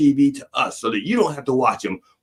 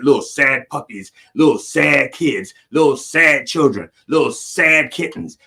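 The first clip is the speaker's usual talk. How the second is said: mock sad. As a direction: drag it out like a sad puppy ad. Listing sad charity ads.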